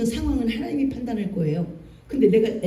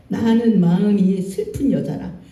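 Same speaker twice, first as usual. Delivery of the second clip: gentle sad plea; slower than usual. Retold or imitated. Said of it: "한나가 뭐라고 그랬냐".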